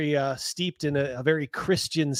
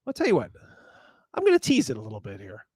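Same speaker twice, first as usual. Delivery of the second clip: usual speaking voice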